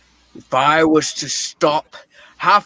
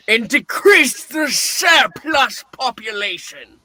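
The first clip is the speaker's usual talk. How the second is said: barked out, louder and higher; harsh shout; 5 semitones higher, 4 dB louder than usual. Acted. Scrooge shouting down the charity collector, harsh shout. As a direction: snap it at the gentleman with contempt.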